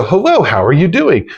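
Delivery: bright, upbeat phone hello; cheerful phone greeting. Shown as a demonstration. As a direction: answer like you're glad they called. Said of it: "be very upbeat and go".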